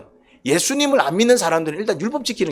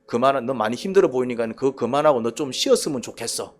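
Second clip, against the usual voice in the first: caring tone; 7 semitones lower, 4 dB quieter than usual. Shown as a demonstration. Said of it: "이 말투하고".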